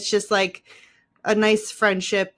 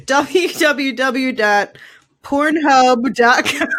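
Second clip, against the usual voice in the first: laughing joke; 3 semitones higher, much slower than usual. Pretend.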